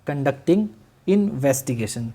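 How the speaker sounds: conducting investigation said again, very slowly; slow repeated dictation. Shown as a demonstration. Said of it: "क्या?".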